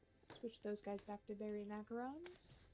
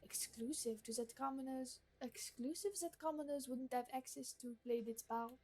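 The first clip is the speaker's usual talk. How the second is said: haughty gourmet lady. Acted. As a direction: read it like a picky aristocrat giving orders. Voicing the gourmet NPC Marguerite.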